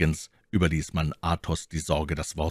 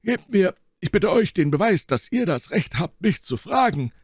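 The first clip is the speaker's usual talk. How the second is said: a touch of irritated pride, higher and louder; growing annoyance; 13 semitones higher, 4 dB louder than usual. A narrator's reading. Athos irritated by the interrogation, mild annoyance. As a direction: push back, mildly nettled. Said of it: "den dieses Verhör zu erzürnen begann".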